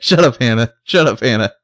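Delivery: mildly snappish imitation of an annoyed friend; mad Emily. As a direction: playfully act fed up with a friend. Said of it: "why Emily's so mad at Hannah".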